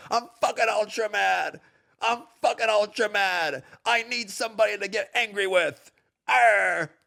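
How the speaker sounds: lightly voiced mock rage; mild mock rage ending in a growl; mock angry gamer. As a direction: play a whiny mad gamer, half-hearted. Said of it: "that's what you guys sound like".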